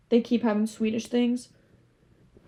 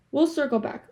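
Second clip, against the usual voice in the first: firm announcement; 4 semitones higher than usual. Pretend. Telling viewers she will return to the topic, firmly.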